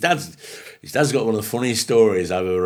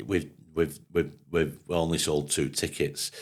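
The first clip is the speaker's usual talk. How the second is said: put-on old woman voice; 5 semitones lower, 8 dB quieter, slower than usual. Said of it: "She went".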